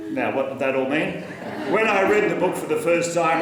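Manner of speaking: normal talking voice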